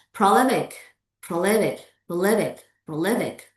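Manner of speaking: PROLIFIC stressed on LIF; second-syllable stress. Shown as a demonstration. Teacher drills an example word, stress on LIF. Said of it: "words with stress on the second syllables".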